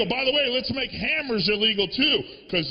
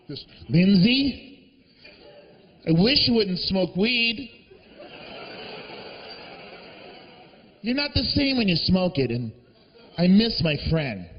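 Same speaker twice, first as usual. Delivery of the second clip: the dog gently begs her to quit; talking dog voice; 3 semitones lower than usual. Retold or imitated. Talking dog pleads with Lindsay, mock earnest.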